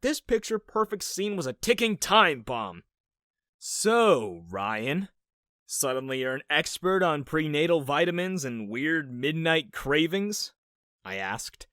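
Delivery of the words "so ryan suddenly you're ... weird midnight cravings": sarcastic. Acted. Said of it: "a hint of sarcasm".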